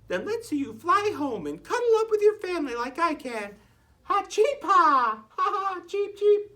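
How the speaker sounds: high chirpy laughing taunt; mocking bird. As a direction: cheep and laugh at her.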